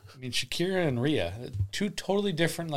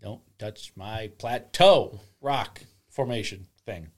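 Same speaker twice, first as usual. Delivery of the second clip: slow, grumbling creature; guard your rock like a grumpy creature; 4 dB louder, slower than usual. Pretend. Mock possessive frog.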